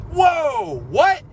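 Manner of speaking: high, loud startled whoa what; jolted, disbelieving outburst; shocked whoa. Retold or imitated. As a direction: react like you can't believe your ears. Shocked at friend blaming him.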